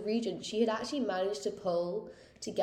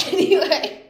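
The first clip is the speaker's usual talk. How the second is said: loud, high "anyway" through laughter; bursting out, high and amused; laughing segue; 9 semitones higher, 14 dB louder than usual. Real, not acted. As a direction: laugh off the silly joke loudly. Laughs off own silly joke.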